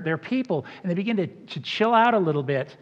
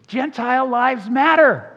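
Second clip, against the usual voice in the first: higher and louder, laughing through the slogan; laughing punchline; 6 semitones higher, 7 dB louder than usual. Real, not acted. Preacher unveils his next slide to the congregation, laughing. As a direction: land the slogan with a big laugh. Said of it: "Here it comes, next slide".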